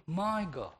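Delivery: "my" lifted high, falling onto "God"; stress on "my". Shown as a demonstration. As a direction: claim him with a high, stressed "my". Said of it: "that would stress his relationship".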